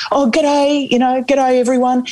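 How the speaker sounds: high, cheery mock greeting; hearty greeting. Premier bounding up the stairs greeting everyone, cheery and high. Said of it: "bounded up the stairs".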